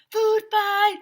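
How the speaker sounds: loud, high yell; shouted. A narrator's reading. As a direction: yell it across the cafeteria. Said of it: "someone shouted".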